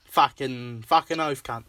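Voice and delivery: mock Australian swearing; put-on Aussie accent. Teasing Aussie listeners with a put-on Australian accent. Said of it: "our shitty Aussie accents".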